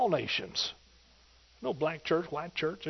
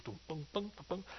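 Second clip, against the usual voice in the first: bass boom imitation; 17 dB quieter than usual. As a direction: mimic the bass line quietly. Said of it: "And he goes".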